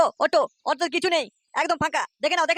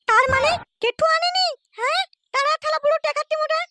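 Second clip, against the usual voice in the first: lightly voiced comic figure, higher; a hint of a sneering character; high put-on voice; 13 semitones higher than usual. The figure sneers at the stingy old man.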